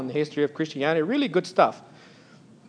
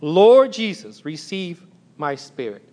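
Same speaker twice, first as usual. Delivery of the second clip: slow quoted cry, louder on Lord, then fading to a hush; a dying man's slow last prayer; slow calling out; 4 dB louder, slower than usual. Retold or imitated. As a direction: call out "Lord Jesus" slowly, then let "receive my spirit" sink away. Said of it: "as he called out".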